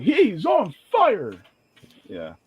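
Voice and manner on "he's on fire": drawn-out hype ad-lib, pitch swooping up; lightly mock a hype man's tag; imitated song tag. Mocking a rapper's habit to friends, drawn-out hype. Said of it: "he's like".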